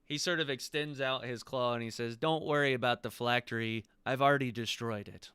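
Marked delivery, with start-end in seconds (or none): 2.2-5.3 lightly voiced dragon, grave accusation; deliberate, emphatic dragon pronouncement; voiced emerald dragon. Dragon tells the visitors he crushed the phylactery, measured menace.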